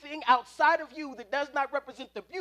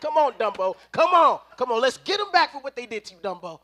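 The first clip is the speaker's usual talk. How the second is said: louder, urging him on; cheering on; 6 dB louder than usual. Acted. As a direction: egg him on with a loud cheer. Cheering Dumbo on.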